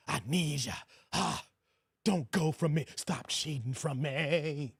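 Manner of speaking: slow, drawn-out begging; mock desperate pleading. Husband begging his wife not to leave, mock whimper. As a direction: drag every word like he can't live without her. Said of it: "That's how y'all sound".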